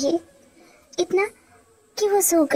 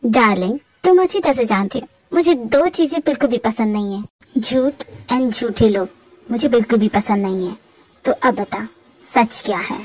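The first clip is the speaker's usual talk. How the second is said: lightly voiced stern husband, lower pitch; 5 semitones lower than usual. Husband confronting his wife over lies, lightly stern. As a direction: play a husband demanding the truth, a bit lower.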